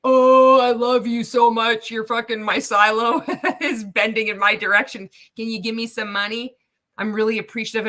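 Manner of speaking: loud, gushing begging voice; mock gushing. Millionaire mocking Ray's gushing call, loud. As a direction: ham up a syrupy plea. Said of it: "he's doing the, oh, appreciative".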